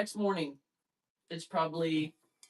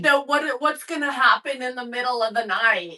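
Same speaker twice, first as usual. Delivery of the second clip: raised, pressing objection, louder by the end; insistent protest; 3 semitones higher, 7 dB louder than usual. Retold or imitated. Family protesting that leaving her overnight is pointless, loud and insistent. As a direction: push back hard on the idea of leaving. Family arguing against going home.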